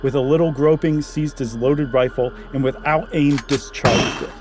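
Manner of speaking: measured, even storytelling voice reading a Halloween tale; story narration. Acted. Reading a spooky story aloud to a co-host, steady narration. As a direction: draw the listener into the dark cabin, line by line.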